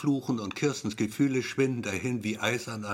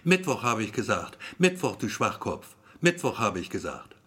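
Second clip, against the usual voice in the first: annoyed. Acted. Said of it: "genervt wie es scheint".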